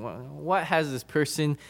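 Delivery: mock protest, building in volume; voiced grumbling objection. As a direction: play the objecting listener, mildly indignant. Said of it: "I know what you're thinking".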